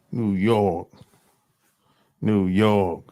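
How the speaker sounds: put-on low, drawn New York accent on "New York". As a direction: say it like a New Yorker. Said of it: "That's how they talk".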